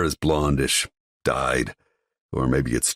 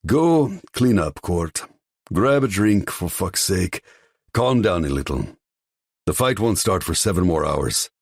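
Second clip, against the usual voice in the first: higher, louder father scolding his son; stern father; 6 semitones higher, 3 dB louder than usual. Acted. Father orders his son to calm down, stern. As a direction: bark orders at the hothead son.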